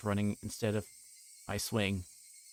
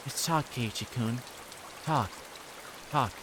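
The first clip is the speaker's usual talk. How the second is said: put-on eerie coaxing girl; 3 semitones higher than usual. Reina whispering after Keiichi, eerie coaxing. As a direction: coax him, word fading each time.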